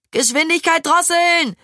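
high, urgent command in sudden panic; panicked cry. A narrator's reading. Maja wants the tandem slowed down, panicked cry. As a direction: cry out the order in alarm. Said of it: "schrie Maja plötzlich panisch".

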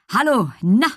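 excited horse. A narrator's reading. Horse storms up to the girl, excited greeting. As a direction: greet eagerly, raring to go. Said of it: "Merlin riss sich los und stürmte heran".

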